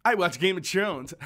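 THRONES said with a hard T, like "trones"; hometown pronunciation. Retold or imitated. Teasing hometown speech in Game of Thrones, hometown pronunciation. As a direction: turn the TH of "Thrones" into a T. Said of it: "people back where I'm from".

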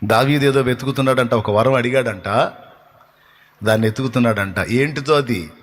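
ordinary delivery

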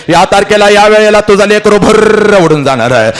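high, insistent proclamation; crying out. Acted. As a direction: call it out like a dreaded announcement. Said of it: "त्याला ओरडून ओरडून सांगत असते".

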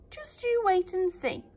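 hint at a secret; mysterious stranger. Acted. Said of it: "said the man mysteriously".

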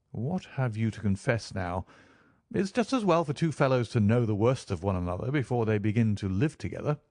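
lightly voiced, frank confession of faults; candid Holmes. Holmes owns up to shortcomings before sharing rooms, lightly candid.

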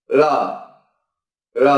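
"l" held alone as a lateral hum; final l sound. Shown as a demonstration. Teacher sounding out the final "l" for learners. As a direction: hold the "l". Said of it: "chúng ta phát âm là l".

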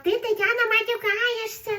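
a touch of a shocked viewer; mocking a commenter. Reading out a viewer's comment in a mock-shocked voice. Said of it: "Хто там мені писав".

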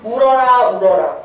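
울어라 said aloud syllable by syllable; sounding out. Shown as a demonstration. Teacher shows students how old spelling sounds, sounding out. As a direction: sound out 울어라 to hear the modern word. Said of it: "근데 발음해봐".

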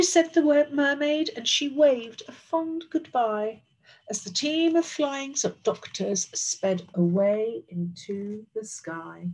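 lilting, animated read-aloud; story narration. A narrator's reading. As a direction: tell it to children with long, drawn words.

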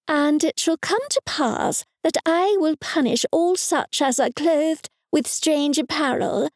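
high, solemn Bible recitation; scripture quoting. Acted. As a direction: intone it like a preacher.

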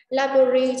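"Library" stressed on LI; stress on first syllable. Shown as a demonstration. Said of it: "trọng âm số một". (nhấn âm đầu của "Library")

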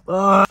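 exasperated "ugh"; frustrated groan. Real, not acted. Venting frustration at the company.

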